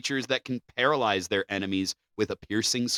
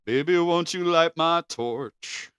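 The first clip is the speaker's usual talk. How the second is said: slow, hammed-up crooning come-on; mock seductive; 6 semitones higher, slower than usual. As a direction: croon it slowly like a cheesy lover.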